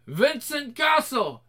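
slow, drawn-out reversed speech; like a tape run backwards, slowly; backwards talking. Acted. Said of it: "doing the backwards talking".

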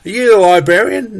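retold angry grilling; indignant demand. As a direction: fire it at the clerk like a cross-examination. Acted retort to council staffer.

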